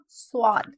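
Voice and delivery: स्वाद said slow with a thick, heavy sound; heavy swad. Shown as a demonstration. Teacher shows students the heavy letter, slow and heavy. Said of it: "स्वाद को हम heavy sound के साथ".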